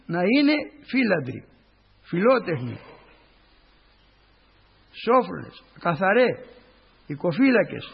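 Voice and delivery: preacher reading Paul's letter slowly and solemnly; solemn scripture reading. Acted. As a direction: intone the verses to the congregation. Reads scripture aloud in church.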